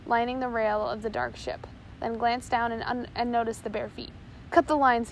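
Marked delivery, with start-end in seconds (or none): 4.5-5.1 loud bellowed order. A narrator's reading. First mate ordering his crew, bellowing. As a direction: bark it to the crew. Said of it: "he bellowed".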